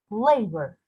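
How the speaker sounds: LA in "Labor" strong, "bor" weak; stress on first syllable. Shown as a demonstration. Teacher contrasting stressed and unstressed parts, first syllable stressed. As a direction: lean on LA in "Labor". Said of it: "lay is stressed".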